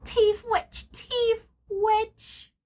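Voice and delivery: high, loud indignant repeat. Acted. Mister Spencer scoffing at thieves, high indignant outburst. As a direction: fire it back, outraged. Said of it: "because he was indignant".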